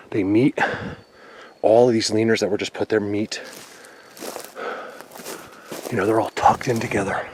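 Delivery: winded from a steep climb; out of breath, gasping between words. Real, not acted. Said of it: "Sorry, I'm out of breath 'cause this is really steep".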